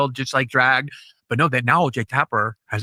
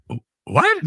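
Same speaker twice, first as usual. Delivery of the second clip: high squeaky disbelief; imitating a guest caught off guard; stunned what. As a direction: play it utterly baffled. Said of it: "And she was like".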